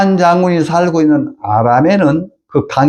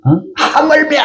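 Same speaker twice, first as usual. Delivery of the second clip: servant pleading. Retold or imitated. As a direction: urge him gently but firmly. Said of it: "자기 종들이 얘기를 해요".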